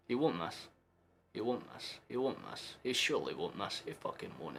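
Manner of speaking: will it to happen under your breath; nervous murmur. Real, not acted. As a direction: fan before the kick. Nervous before penalty.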